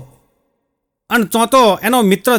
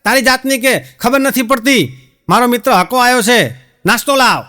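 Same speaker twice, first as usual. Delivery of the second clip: higher, bossy scolding of the wife; husband showing off to his friend by bossing his wife; mock scolding husband; 4 semitones higher than usual. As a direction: bark orders at the wife in jest. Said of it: "એની પત્નીને ધમકાવા માંડ્યો".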